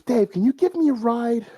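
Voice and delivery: high, loud call across the bar; yelling into bar. Acted. McDonald's girl calling into the bar for a ride. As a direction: shout the question through the door. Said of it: "she yells into the bar".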